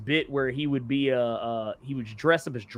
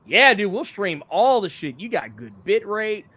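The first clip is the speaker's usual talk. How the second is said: laid-back OBS voice; 3 semitones higher than usual. Pretend. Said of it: "Now it's just like".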